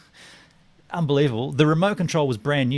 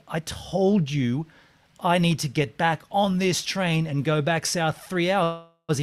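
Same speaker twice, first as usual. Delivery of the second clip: exasperated; 4 semitones higher than usual. Retold or imitated. Telling the buyer off about the long trip, exasperated. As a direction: spell out the hassle, exasperated.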